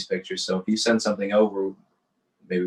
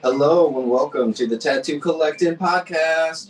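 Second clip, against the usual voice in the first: podcast intro; 6 semitones higher, 4 dB louder, slower than usual. Acted. Podcast opening welcome.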